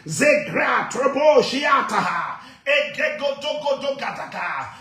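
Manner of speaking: full-force deliverance prayer, chanting and speaking in tongues; fiery preaching. Acted. Pastor to congregation, commanding deliverance in full preaching voice. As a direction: preach it out, rebuking with fire. Prayer resumes after story.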